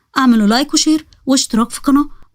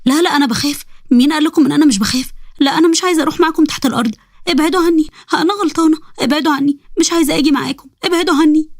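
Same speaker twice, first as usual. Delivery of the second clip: higher, panicky begging; frightened pleading; 4 semitones higher than usual. Acted. Sara begging the creatures to leave her alone, higher and panicky. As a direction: push them away in fear.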